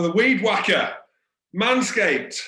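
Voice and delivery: punchy mock-ad announcement; product plug. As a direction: announce the product like a big reveal. Mock-serious product plug on air.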